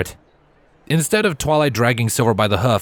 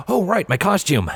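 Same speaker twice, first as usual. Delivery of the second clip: lightly raised stallion voice; a touch higher, casual; Trailblazer's voice; 8 semitones higher than usual. Acted. Mummy pony remembering his costume, lightly higher.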